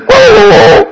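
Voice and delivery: hammed-up dog whelp; fake dog yelp. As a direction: yelp high as if beaten. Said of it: "he makes this whelp".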